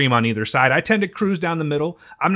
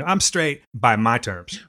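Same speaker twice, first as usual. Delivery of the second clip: slow mocking quote; 4 semitones lower, slower than usual. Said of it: "you're saying".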